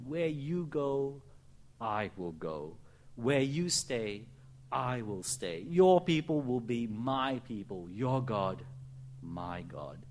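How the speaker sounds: slow, deliberate vow with long pauses; tender solemn declaration. Acted. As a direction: savor each line like a sacred promise. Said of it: "Listen again to Ruth's most moving declaration".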